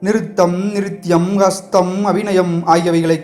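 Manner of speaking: lightly teasing, a touch of scorn; mocking. The prince mocks Sivakami through her deer, lightly teasing. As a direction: tease her about her stage airs. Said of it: "பரிகாசம் தொனித்த குரலில் சொன்னார்".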